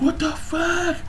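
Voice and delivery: high, soft laughing what the fuck; laughing disbelief. Retold or imitated. Fan hearing Jinbei offer blood, laughing in shock. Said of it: "I'm like".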